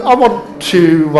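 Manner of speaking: normal talking voice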